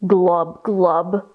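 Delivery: low, slow double glub; glubbing fish. A narrator's reading. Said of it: "said fish".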